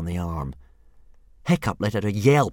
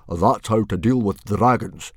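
smug chief; 5 dB louder than usual. Acted. Stoic smug.

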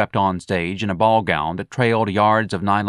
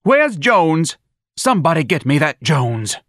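yelling for Jones; 7 semitones higher, 5 dB louder than usual. Acted. Lana Lee yelling for Jones.

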